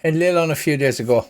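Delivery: a friendly Irish priest welcoming strangers; Irish accent. Acted. Father Dougal welcomes the axe-carrying fighter, light Irish accent. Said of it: "pretend Colin Farrell accent".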